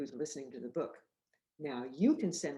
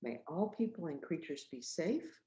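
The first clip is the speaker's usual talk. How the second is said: gentle recital; 3 dB quieter than usual. Shown as a demonstration. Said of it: "we're gonna say".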